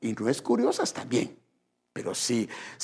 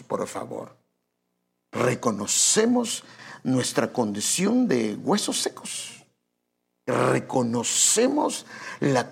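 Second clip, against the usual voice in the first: slow, measured prayer; deliberate, reverent public prayer; 3 semitones lower, slower than usual. Real, not acted. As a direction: address God solemnly, with long pauses. Leads a prayer.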